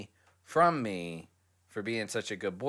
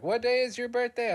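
curious coworker; 13 semitones higher, 5 dB louder than usual. Retold or imitated. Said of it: "they're like".

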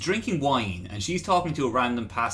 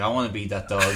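laughing; 5 semitones lower than usual. Retold or imitated. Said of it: "I was like".

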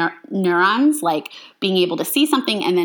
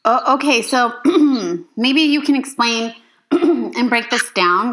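congested; 3 semitones higher than usual. Real, not acted. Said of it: "Excuse me, I'm still congested".

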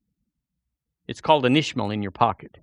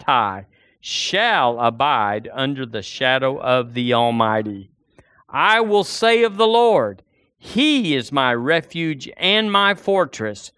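slow, solemn reading of a psalm; scripture reading; slower than usual. Acted. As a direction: read it out together, rising in fervour. Congregation reads Psalm 91.

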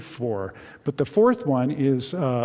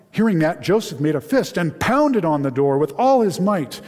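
expressive read-aloud storytelling; dramatic Bible story narration; 3 semitones higher than usual. A narrator's reading. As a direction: read the Joseph passage aloud to the congregation with feeling. Pastor reads a novel excerpt aloud.

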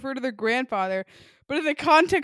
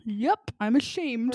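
slow, drawn-out dad impression; lightly voiced ashamed dad; slower than usual. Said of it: "Your dad would say".

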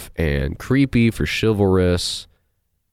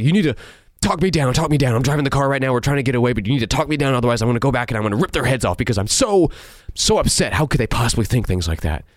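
melodramatic mock Edward; 4 semitones higher, faster than usual.

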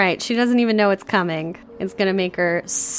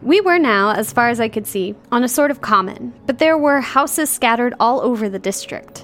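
measured literary read-aloud; novel narration; 3 semitones higher than usual. A narrator's reading. Host reading Jane Eyre to co-host, storybook narration.

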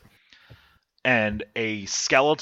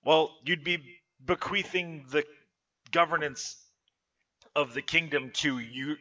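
elf assistant. Acted. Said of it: "then goes".

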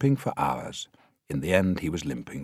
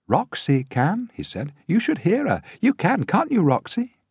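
put-on much higher, louder boy's voice; eager boy; 14 semitones higher, 6 dB louder than usual. A narrator's reading. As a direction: pipe up eagerly for a friend. Child Tiny speaks up eagerly.

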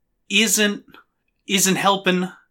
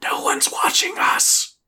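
very high whispered bird voice; excited birdlike stage whisper; chirping bird person; slower than usual. Acted. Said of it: "and is just like".

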